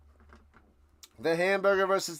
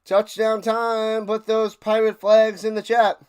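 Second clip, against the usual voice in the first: hype; 5 semitones higher, 7 dB louder than usual. Real, not acted. Hyping chat after touchdown.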